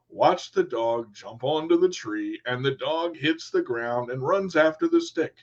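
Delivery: slow, careful radio read. Retold or imitated. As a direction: read it slowly like a radio announcer. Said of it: "You have a radio voice".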